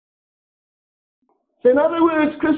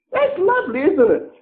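sarcastic; 8 semitones higher than usual. Real, not acted. Sarcastic praise.

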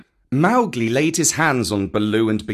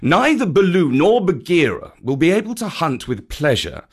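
emphatic, indignant rebuke; angry scolding; 3 semitones higher, 4 dB louder than usual. Acted. Panther blaming the boy for their wounds, angry. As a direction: drive home each injury, rising louder at the end. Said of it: "said Bagheera angrily".

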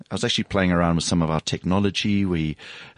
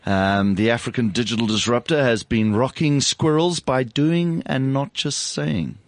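husky voice; 2 semitones higher than usual. Real, not acted. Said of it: "I have a slightly husky, sexy voice this morning".

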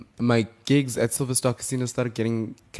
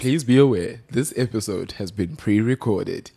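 voiceover announcement. Pretend. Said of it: "Oh, you want me to?".

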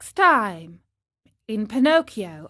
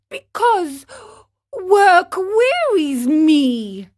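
high, drawn-out, louder whining; lazy whine; 8 semitones higher, 7 dB louder, slower than usual. Acted. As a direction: moan it slowly like a spoiled puppet. Pinocchio voiced in story.

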